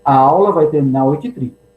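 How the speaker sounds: bossy teacher announcing the end of class; authoritarian. Shown as a demonstration. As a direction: say it like an order that settles it. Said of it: "vou fazer a entonação".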